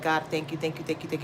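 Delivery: low murmured thanks to God; grateful prayer. Retold or imitated. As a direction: say thanks softly, again and again. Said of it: "I'll say that a hundred times".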